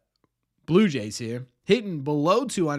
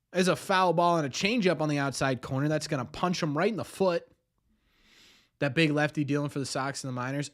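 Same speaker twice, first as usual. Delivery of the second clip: announcer voice. Acted. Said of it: "Do you like my announcer voice".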